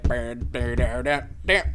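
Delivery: vocalised keyboard notes; mimicked keyboard riff. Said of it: "And he's like".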